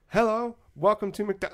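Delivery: imitated Japanese accent. McDonald's worker greeting tourists, imitated Japanese accent. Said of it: "obviously with a thick accent".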